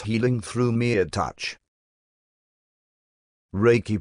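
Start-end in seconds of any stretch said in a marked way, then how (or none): 3.5-4.0 "Reiki" said as RAY-KEY; careful pronunciation. Shown as a demonstration. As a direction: pronounce "Reiki" in two parts, ray then key. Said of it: "pronounced as Reiki".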